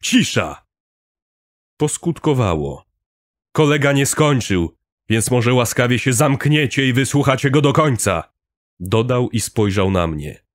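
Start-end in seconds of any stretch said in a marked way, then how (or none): 0.0-0.6 firm shout. A narrator's reading. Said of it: "wrzasnął stanowczo Robert". 3.5-8.3 higher, louder sarcastic rebuke; annoyed scolding. A narrator's reading. Robert scolds panicking crowd.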